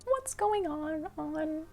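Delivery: high, drawn-out mock bewilderment; hammed-up confused singsong; confused plea. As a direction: stretch it out in a high, puzzled squeak. Silent bewildered appeal to onlookers.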